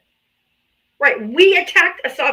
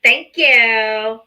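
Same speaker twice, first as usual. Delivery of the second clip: dictated mock thanks; 5 dB louder, slower than usual. Shown as a demonstration. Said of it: "no, say".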